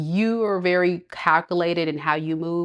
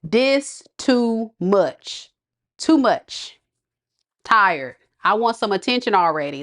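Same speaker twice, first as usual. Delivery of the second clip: slow, high whiny complaint; needy partner wanting attention; mock needy complaint; 3 semitones higher than usual. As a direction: drag out a needy sigh of a line. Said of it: "this person would say".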